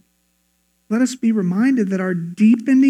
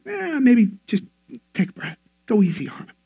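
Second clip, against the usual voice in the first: gentle prompting. Acted. God advising patience with a grumpy boss, gentle prompting. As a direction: talk someone down kindly.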